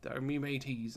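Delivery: lightly voiced old pirate; old sea pirate. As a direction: toss off a playful pirate impersonation. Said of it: "like an old sea pirate".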